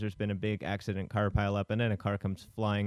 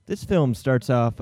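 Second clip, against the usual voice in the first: slow restart; 3 semitones higher, 7 dB louder, slower than usual. Acted. Host restarting the recap after the cue, slow. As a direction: restart the lead-in slowly and a bit louder. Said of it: "Hi, hi".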